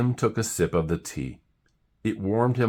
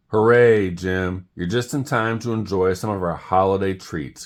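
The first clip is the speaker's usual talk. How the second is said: cheering; 3 semitones higher, 5 dB louder than usual. Acted. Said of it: "croaked the frogs".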